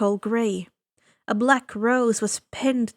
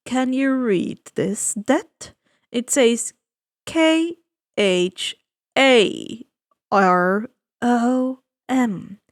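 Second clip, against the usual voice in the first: suave ferryman; 3 dB louder, slower than usual. Acted. Ferryman of the dead greeting the boy, slow and silky. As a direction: savor each word like a sly host. Charon spells his name.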